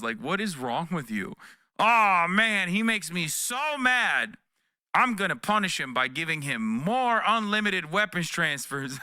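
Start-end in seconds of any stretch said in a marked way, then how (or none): 1.8-9.0 sarcastic whiny Biden pretending to be furious; mock angry Biden. Mocking Biden to chat with fake fury.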